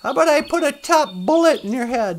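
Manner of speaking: lightly acted sneering bad cop; mock movie threat, starting high and loud. Bad cops taunting the cornered hero, threatening. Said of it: "the bad cops are like".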